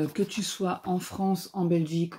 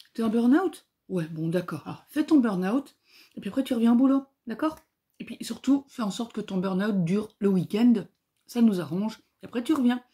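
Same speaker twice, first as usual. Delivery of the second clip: higher, mock-cheery uncaring boss; sarcastic boss voice, pitched up; 3 semitones higher than usual. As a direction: parody a manager brushing off burn-out. Mocking the boss's attitude.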